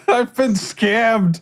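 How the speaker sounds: slow, high laughing wail. Pretend. Laughing joke.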